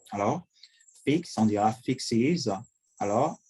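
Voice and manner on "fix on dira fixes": fix then fixes said slowly, fixes ending in iz; slow model pronunciation. Shown as a demonstration. Teacher drilling the iz ending for students.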